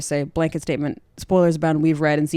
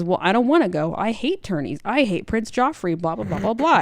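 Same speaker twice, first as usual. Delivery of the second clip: snappy; 4 semitones higher than usual. Retold or imitated. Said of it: "have a big snappy argument".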